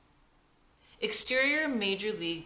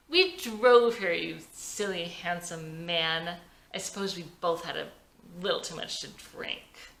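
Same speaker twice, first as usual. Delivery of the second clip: tipsy. Acted. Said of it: "Vicky is tipsy now".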